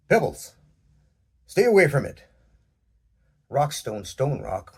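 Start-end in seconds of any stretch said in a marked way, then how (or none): 0.1-2.2 loud, commanding sheriff call; authoritative shout. A narrator's reading. Sheriff calling Pebbles away from the stranger, loud commanding shout. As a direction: bark the order to protect the girl. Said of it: "raising his voice with authority".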